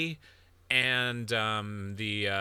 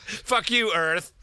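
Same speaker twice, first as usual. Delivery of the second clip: high, loud playful curse; comic outburst, pitched up; mock anger; 7 semitones higher, 5 dB louder, slower than usual. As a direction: curse it in pretend outrage. Mock rage at the planet.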